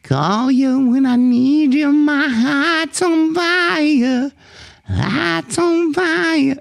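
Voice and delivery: hammed-up nasal high singing; exaggerated twang. Shown as a demonstration. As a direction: overdo the twang on purpose. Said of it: "this is kind of a caricature".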